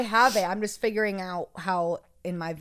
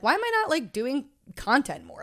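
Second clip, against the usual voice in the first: high quoted question; 7 semitones higher, 4 dB louder than usual. Retold or imitated. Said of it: "but I'm like".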